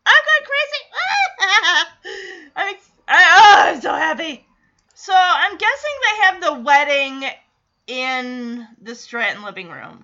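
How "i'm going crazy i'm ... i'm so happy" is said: very high, loud shriek of joy; screaming fan. Retold or imitated. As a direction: scream and laugh like a thrilled fan. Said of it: "the audience goes crazy".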